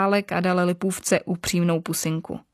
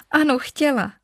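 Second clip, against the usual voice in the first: smiling; 7 semitones higher than usual. Acted. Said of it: "usmála se Lipůvka".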